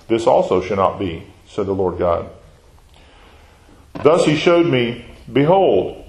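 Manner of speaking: measured, solemn Bible reading; scripture reading. Acted. Teacher reading Amos to the class, solemn.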